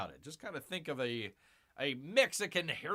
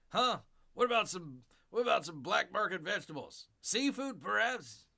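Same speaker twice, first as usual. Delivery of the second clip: shady dealer pitch; 4 semitones higher than usual. Acted. Dealer pitching more goods.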